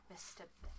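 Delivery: hushed greeting, hint of a fey woman; sigh, then say it very softly; older fey woman. Fey woman greeting the party, softly voiced. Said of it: "and she goes".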